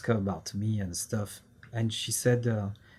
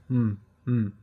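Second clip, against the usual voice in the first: imitated absent-minded "hmm, hmm"; absent-minded hum; 4 dB louder than usual. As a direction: hum as if absorbed in reading, shutting everything out. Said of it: "completely shutting everything off".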